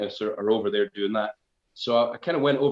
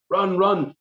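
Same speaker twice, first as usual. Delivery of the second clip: high, raised retold warning; urgent warning; 8 semitones higher, 5 dB louder than usual. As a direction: urge him to flee, acting it out. Dream figure urging him to flee.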